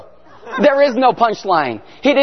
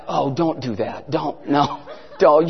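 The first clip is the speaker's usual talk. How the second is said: low, soft pleading through laughter; laughing plea; 7 semitones lower, 6 dB quieter, slower than usual. Retold or imitated. The pastor begging Bill not to send the card, laughing low. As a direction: beg him to stop while laughing. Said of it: "And I'm like".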